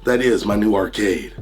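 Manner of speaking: hoarse from being under the weather; sick, scratchy raspy voice. Real, not acted. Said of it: "excuse my raspy voice".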